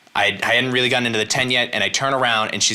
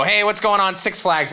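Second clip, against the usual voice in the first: pitched up, calling out to the crowd; hyped stage greeting; 7 semitones higher than usual. Retold or imitated. Comedian hyping the Six Flags crowd, high excited call. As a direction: greet a packed crowd with big energy.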